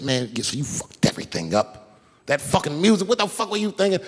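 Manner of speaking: mild mock yell at the producers, pitch climbing; retold angry yelling. Young comic cussing out producers over ruined show, mock yelling. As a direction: retell an angry tirade without full volume. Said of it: "I started yelling at all the producers".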